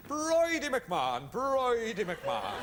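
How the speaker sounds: slow, drawn out; savoring a name. Pretend. Savoring the guest's name slowly. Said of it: "Lovely name".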